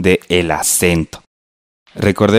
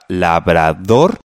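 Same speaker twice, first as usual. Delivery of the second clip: slow "labrador" as la, bra, dor; syllable by syllable; 3 semitones lower, much slower than usual. Shown as a demonstration. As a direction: sound out "labrador" in three measured beats. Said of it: "En la misma palabra".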